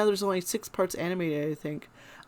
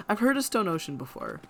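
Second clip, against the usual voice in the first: drinking tea. Real, not acted. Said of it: "I'm sorry, I'm drinking tea".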